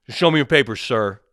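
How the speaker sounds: loud, high mock command; mocking bark of an official; imitated border agent. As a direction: parrot the officious order with force. Mimics the agent again.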